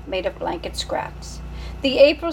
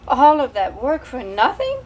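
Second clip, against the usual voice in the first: put-on French-accented, a touch higher and louder; French mother; 4 semitones higher, 4 dB louder than usual. French mother lamenting her wasted labor. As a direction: complain dramatically in a French accent. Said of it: "said the mother".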